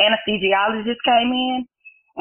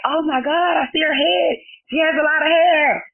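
excited; 8 semitones higher than usual. Retold or imitated. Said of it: "I just hear people saying".

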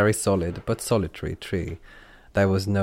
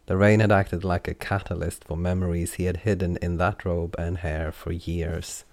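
usual speaking voice

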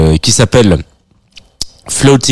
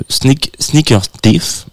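slow, careful stab at an English accent on "Sneaker Thief"; awkward French try at an English accent; English accent attempt; 4 semitones higher, much slower than usual. Real, not acted. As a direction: sound out "Sneaker Thief" slowly in a self-conscious English accent. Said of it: "pour mon accent anglais".

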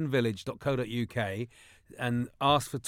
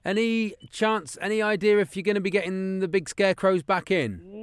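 put-on caller voice; 6 semitones higher than usual. Prank caller voice on phone.

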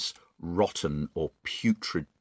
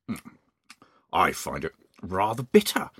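Mister Twit; 2 semitones lower, 4 dB quieter than usual. Acted. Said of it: "Mister Twit said".

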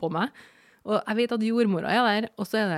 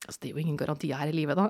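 laughing blunt reply; 5 semitones lower, much faster than usual. Retold or imitated.

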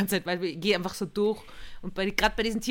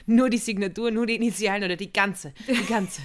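louder, hurried questions about the signature; flustered mock panic; 3 dB louder than usual. A friend playing a panicked signer, flustered. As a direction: fret like someone who forgot how to sign. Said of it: "du bist einfach immer so gestresst".

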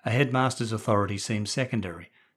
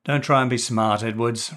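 rebuke; 4 dB louder than usual. Acted. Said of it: "rebuked Hamilton".

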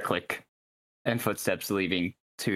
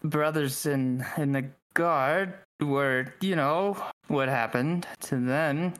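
slow, halting guard voice; lightly voiced hesitant guard; Mintarn guard; 3 semitones higher, slower than usual. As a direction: pick through the words slowly as a guard. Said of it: "one of the Mintarn guards just looks at you and goes".

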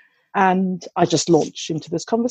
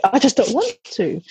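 higher, mildly whiny child imitation; reluctant young daughter; 4 semitones higher than usual. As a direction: mimic a little girl digging in. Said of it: "She's just a bit like".

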